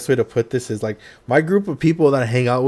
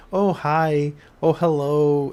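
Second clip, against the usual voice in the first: higher-pitched, polite greeting imitation; formal greeting; 5 semitones higher, slower than usual. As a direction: imitate overly formal VTubers saying hello. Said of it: "like, very, like, formal".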